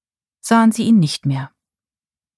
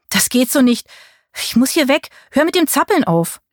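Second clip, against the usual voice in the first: urgent; 6 semitones higher than usual. A narrator's reading. Marie urgent on the beach.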